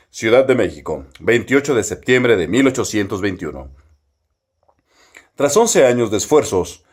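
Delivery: big booming period newsreel voice; old newsreel. Shown as a demonstration. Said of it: "Vamos a poner una voz mamalona, así como si fuera noticiario de época". (voz de noticiario antiguo)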